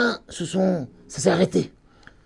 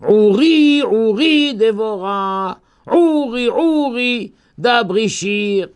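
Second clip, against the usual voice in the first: declaimed verse; 2 semitones higher, slower than usual. Shown as a demonstration. Teacher recites Deborah's song to the class, declaimed. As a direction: intone the verse like a chant.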